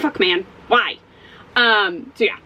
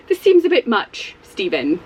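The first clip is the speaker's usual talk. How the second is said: lightly voiced primly disapproving woman; a hint of a prim, proper teacher; mock school teacher scolding gently; prim businesswoman; slower than usual. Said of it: "I don't know what that voice is".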